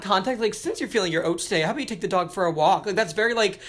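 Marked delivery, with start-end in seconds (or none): 0.5-2.8 quick suburban mom nagging; lightly voiced suburban mom; suburban mother. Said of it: "suburban mother".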